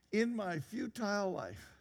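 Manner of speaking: slow, weary reading. Acted. Preacher voicing Solomon looking back on life, weary. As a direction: read it as a worn-out man, drawn out. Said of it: "you just hear the weary".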